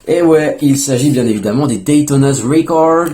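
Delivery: "Daytona's Record" in a light mock English accent, slowed a little. Shown as a demonstration. Vlogger naming his new wheels in a light mock English accent. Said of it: "mon petit accent bien anglais".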